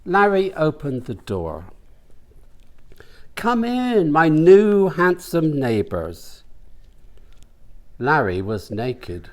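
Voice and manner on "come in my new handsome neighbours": put-on high, slow, sugary old man's welcome; an old neighbour's high, slow, sweet greeting; old host welcome. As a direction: lure the new neighbours in, drawn out and high. Naked old host greets guests.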